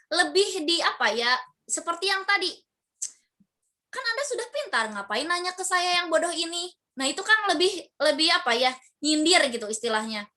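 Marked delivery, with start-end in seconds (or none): 3.9-6.7 high, mock-innocent sneer; sneering cynicism. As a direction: needle them with fake modesty. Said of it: "Kalau sinisme ini". (sindiran sinis dengan nada tinggi mengejek)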